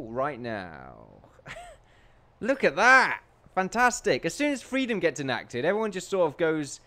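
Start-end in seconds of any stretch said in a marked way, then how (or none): 2.4-4.2 excited. Real, not acted. Excited at game.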